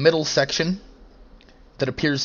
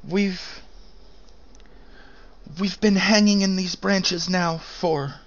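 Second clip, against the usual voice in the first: stranded airship pilot; 5 semitones higher than usual. Acted.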